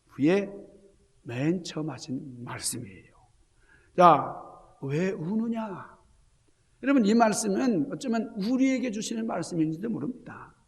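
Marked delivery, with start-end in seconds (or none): 4.8-5.9 slow, tender question; gentle voice of Jesus. Acted. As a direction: ask softly, very slowly, as the Lord. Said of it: "맨 처음 주님이 하신 말씀". (예수님의 부드럽고 느린 물음)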